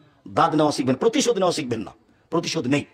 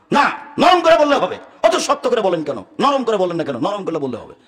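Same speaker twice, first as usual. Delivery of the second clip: retold insistent yell; 4 dB louder than usual. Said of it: "খুব চিৎকার করে বলছে".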